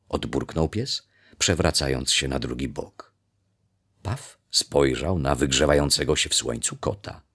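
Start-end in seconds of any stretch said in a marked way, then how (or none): none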